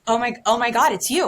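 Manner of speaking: imitating a fan's high, loud gasp; excited fan. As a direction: play the starstruck girl spotting her. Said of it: "she was like".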